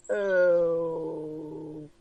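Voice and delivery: long drawn-out "oh", then a small "hey"; bored hesitation. Acted. Bored receptionist slowly acknowledges the visitors, hesitant and unimpressed. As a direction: stall on the first word, unimpressed.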